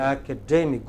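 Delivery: "Academic" with the stress on DEM; correct pronunciation. Shown as a demonstration. English teacher models the word for class, correct pronunciation. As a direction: lean on the third syllable of "Academic". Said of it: "correct pronunciation of the first word".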